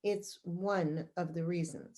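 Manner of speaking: subdued insistence. Acted. Center director answering the employee's rebuttal, quietly insistent. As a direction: hold the point quietly and deliberately. Boss repeats point after rebuttal.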